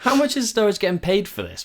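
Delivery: laughing while asking; chuckling through the question. Real, not acted.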